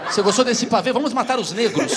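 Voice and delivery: voz de avó falando alto entre risos; avó racista imitada. Retold or imitated. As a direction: imita a avó oferecendo pavê. (imitação de avó racista)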